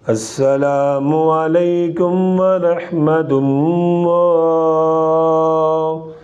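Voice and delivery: devout recitation ending in a long drawn-out salam; recite, then stretch the final salam; prayer recitation. Shown as a demonstration. Qari closing the demonstrated prayer, long drawn-out salam.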